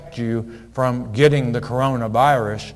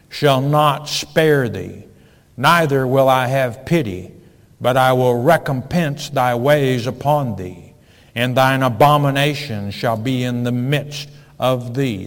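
scripture reading; 4 dB louder than usual. Acted. Reads the Lord's words.

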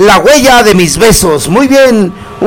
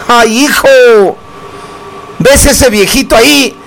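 mock old lady; 3 semitones higher than usual. DJ voices Huela talking to him.

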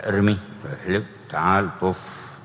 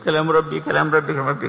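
tearful plea; 9 semitones higher, faster than usual. Retold or imitated. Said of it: "يبكي، يقول".

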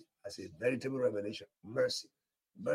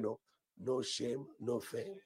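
slow, drawn-out "No, no shame, no fame"; slow mock of the wrong declaration; slow misheard version; slower than usual. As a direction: echo the wrong version slowly. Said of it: "I thought you're declaring".

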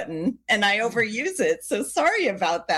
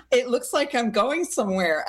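usual speaking voice

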